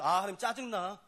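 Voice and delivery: high, whiny mock complaint; grumbling Bible reader. A reader of Leviticus griping about God, high and whiny. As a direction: whine about God like an annoyed teenager. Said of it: "우리가 성경 읽을 때마다 뭐라는지 아세요?".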